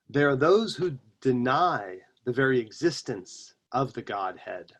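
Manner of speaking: slow, measured reading with long pauses; deliberate philosophical recitation; quote reading. Acted. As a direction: read ancient wisdom aloud, weighing each phrase. Reads an ancient quote aloud.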